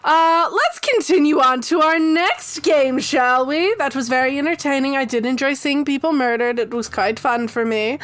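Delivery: a lightly played, pleased game host savoring the murders; smiling game host. Top hat dude smugly moves the group to the next game. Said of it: "just kind of gave a small smile and just goes".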